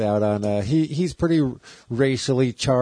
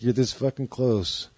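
menacing; slower than usual. Retold or imitated. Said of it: "And he's like".

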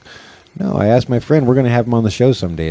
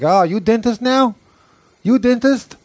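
very high mock Asian dentist; imitated Asian lady dentist, pitched way up; mock Asian accent; 12 semitones higher than usual. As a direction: challenge sarcastically in a squeaky-high Asian accent. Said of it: "She's like".

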